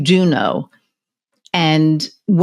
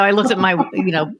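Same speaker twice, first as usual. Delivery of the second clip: ordinary delivery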